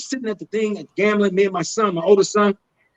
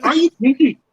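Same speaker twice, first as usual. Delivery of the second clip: higher, insistent mock Indian accent; imitated Indian accent; 4 semitones higher, 4 dB louder than usual. Fan insists on an answer, imitated Indian accent. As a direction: press the question in an Indian accent. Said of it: "And this Indian guy".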